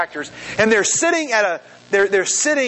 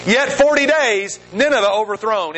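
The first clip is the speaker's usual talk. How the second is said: prophet's sermon; 2 semitones higher than usual. Acted. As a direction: lightly proclaim a stark warning, drawing it out. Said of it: "Here's Jonah's sermon".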